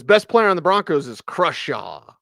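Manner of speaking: "Crushaw" said with an "uh" vowel instead of "Craw"; mispronounced name. Retold or imitated. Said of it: "instead of Crawshaw".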